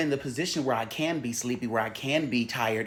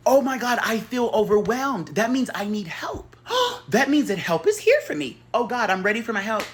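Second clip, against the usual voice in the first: mock overwhelmed; 8 semitones higher, 5 dB louder than usual. Playing someone finding help, high mock-tearful rush. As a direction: ham up the emotional breakthrough.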